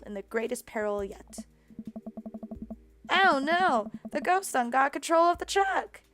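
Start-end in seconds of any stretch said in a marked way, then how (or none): 3.1-6.0 mock panic.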